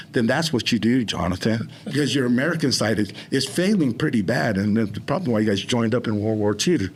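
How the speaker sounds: lightly put-on British scolding; a hint of a British accent, addressing himself. Shown as a demonstration. Brit telling Jonathan his American side is failing, light British accent.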